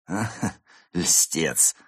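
slow, gratified little chuckle and reply; pleased. Acted. Flattered actress answering her admirer, pleased. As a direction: savour the compliment while pretending to brush it off. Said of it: "сказала Изольда не без удовольствия".

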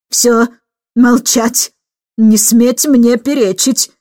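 a half-hearted bark, slow and firm; barking order. Acted. Aunt barks at the cheeky boy to hush. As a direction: snap at the boy to be silent. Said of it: "рявкнула мисс Эндрю".

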